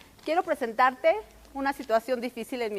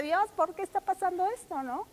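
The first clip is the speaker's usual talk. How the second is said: anguished plea; 6 semitones higher, 4 dB quieter than usual. Retold or imitated. Retold anguished question to God.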